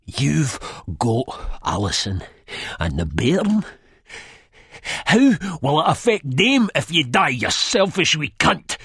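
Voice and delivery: plead, then scold; odd pleading. A narrator's reading. Begbie pleading with Spud to think of his family. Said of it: "in that weird sort of plead again".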